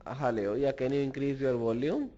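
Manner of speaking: calling out loud. Real, not acted. Lecturer on a bad call, calling out loudly to Larry. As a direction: call out so the far end can hear.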